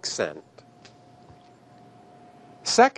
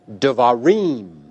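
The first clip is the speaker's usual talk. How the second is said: devarim with the accent on the last syllable, reem; stress on final syllable. Shown as a demonstration. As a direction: slowly say devarim, landing on a drawn-out reem. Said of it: "reem is the accented or tonic syllable".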